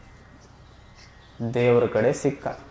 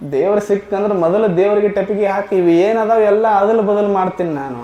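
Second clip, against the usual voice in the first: louder, emphatic, ಅದಲ್ ಬದಲ್ hit hard; boastful declaration; 4 semitones higher, 3 dB louder than usual. Retold or imitated. Man vowing to swap God's creation, loud boast. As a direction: proclaim it like a bold vow.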